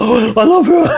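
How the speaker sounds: emotional fan. Retold or imitated. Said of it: "He was like".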